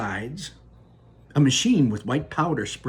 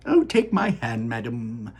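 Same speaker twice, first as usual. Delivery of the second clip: gallant. Acted. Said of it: "said Mister Wonka gallantly".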